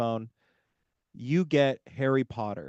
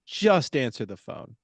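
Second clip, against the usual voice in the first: mock angry customer; 4 semitones higher than usual. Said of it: "I'd be like".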